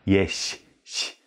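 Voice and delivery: ś hissed softly with wide lips, jaw closed. Shown as a demonstration. Teacher shows the lip position for ś. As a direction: spread the lips and hiss ś. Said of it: "Die Lippen breit".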